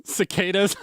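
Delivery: buzzing cicada imitation; cicada impression. Shown as a demonstration. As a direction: mimic a cicada. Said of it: "That's my cicada impression now".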